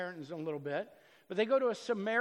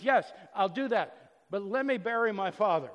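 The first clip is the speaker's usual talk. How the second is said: eager follower; 7 dB louder than usual. Retold or imitated.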